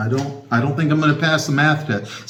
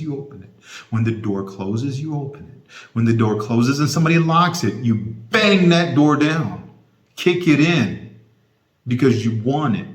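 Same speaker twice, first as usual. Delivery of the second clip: preaching; 3 semitones lower than usual. Real, not acted. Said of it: "Okay, I'm done preaching".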